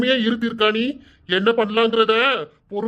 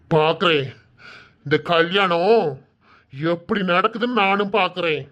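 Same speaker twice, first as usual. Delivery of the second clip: low menacing vow; 4 semitones lower than usual. Acted. Father vows to stop wedding.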